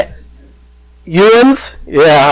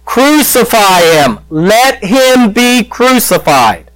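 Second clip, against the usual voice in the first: mock crowd yell; 8 semitones higher, slower than usual. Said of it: "and they yelled out".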